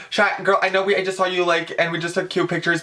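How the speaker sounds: high, pleading retold request; imitated fan plea. Fan retelling begging star for another photo, high plea. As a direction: pitch it up to wheedle a favour.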